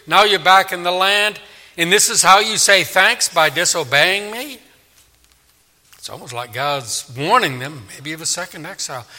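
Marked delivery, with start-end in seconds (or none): 0.0-4.6 mildly indignant rebuke as God; lightly voiced scolding God; God reproaching. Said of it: "It's like he's saying".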